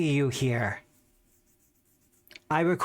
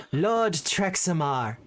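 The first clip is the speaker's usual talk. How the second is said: formal servant voice. Acted. Servant formally introduces the lich.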